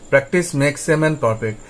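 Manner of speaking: each word of the saying drawn out very slowly; very slow proverb. Acted. Teacher urges students to practise, proverb said very slowly.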